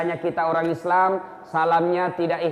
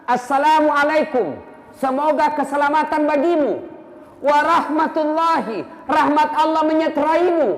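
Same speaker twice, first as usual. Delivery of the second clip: full earnest salam; 7 semitones higher, 4 dB louder than usual. Shown as a demonstration. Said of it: "sempurnakan salam kita".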